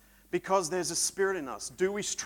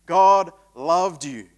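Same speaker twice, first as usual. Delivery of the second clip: much louder and slow, each word weighted; slow loud proclamation; 9 dB louder, slower than usual. Real, not acted. Preacher repeating God's love to the congregation, slow and loud. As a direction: drive it home with full force.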